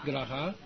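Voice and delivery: 格拉哈 with 哈 swept upward. Shown as a demonstration. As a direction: raise your pitch on the final 哈. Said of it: "这个要尾音要抬高".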